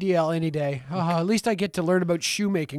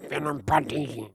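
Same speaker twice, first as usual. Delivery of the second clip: slow, exaggerated mock French, pushed even further; bad French accent pushed lower and slower; worse French accent; 4 semitones lower, 6 dB quieter than usual. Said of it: "do it one more time, even more, worse".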